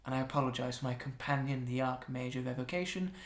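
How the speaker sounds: quiet, apologetic archmage; a hint of Adoration. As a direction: softly excuse your companion.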